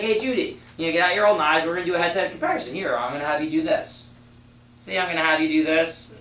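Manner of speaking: lively, firm instructions to the customer; confident direction. Shown as a demonstration. Rep demonstrating assertive talk to Judy, upbeat. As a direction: take charge cheerfully. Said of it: "It's like".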